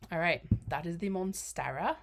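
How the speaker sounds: slipping into an odd accent on Monstera; a stray foreign lilt on Monstera; accidental accent on the plant name; unplanned accent. Real, not acted. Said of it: "Don't know why that had an accent".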